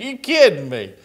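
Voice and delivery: laughing through the question; laughing in disbelief. Retold or imitated. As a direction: chuckle it out, amused at the idea. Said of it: "And I broke out laughing".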